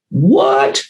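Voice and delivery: a high, squeaked what, thrown up in disbelief; sudden jump up in pitch as if struck by surprise; incredulous squeak; stunned what. Retold or imitated. Recalling his stunned realization.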